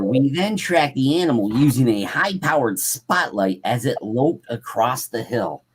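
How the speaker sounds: measured dramatic campfire-story reading; story read-aloud. A narrator's reading. Host reading a Sasquatch encounter to listeners, story read-aloud. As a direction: read it out like an eyewitness account.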